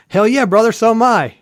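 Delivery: high-pitched, excited imitation of a fan; hammed-up burst of brotherly enthusiasm; hyped fellow fan. Bar owner greeting a fellow Michigan fan, mock excitement.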